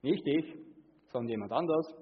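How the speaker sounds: a touch of a nervous laugh, brushing it off; laughing deflection. Retold or imitated. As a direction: wave the blame away with a chuckle. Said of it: "Und gleich mit dem Hinweis".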